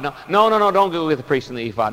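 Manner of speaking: fast flustered no no no; frantic backpedal. Retold or imitated. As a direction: cancel it in a nervous rush. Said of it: "He's just frantic and frenetic".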